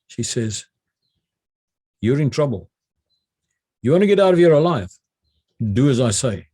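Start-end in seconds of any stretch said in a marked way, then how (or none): 2.0-6.5 authoritative. Retold or imitated. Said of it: "she was speaking with authority".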